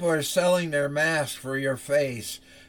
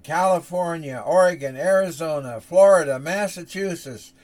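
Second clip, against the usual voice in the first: louder and louder list; building alarm; 3 semitones higher, 6 dB louder than usual. Acted. Preacher listing where the plague spreads, rising loud. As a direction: hammer each state harder.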